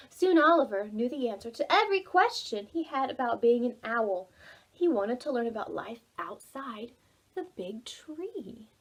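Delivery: put-on gentle read-aloud for children; storybook reading. A narrator's reading. Librarian reads Oliver to young listeners, gently narrating.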